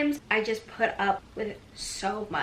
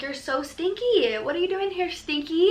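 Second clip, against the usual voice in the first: put-on country accent; 7 semitones higher than usual. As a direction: coo at the cat in a country twang. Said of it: "Why did a country accent just come out?".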